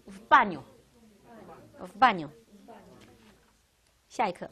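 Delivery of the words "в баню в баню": slow model phrase. Shown as a demonstration. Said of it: "teacher models phrase".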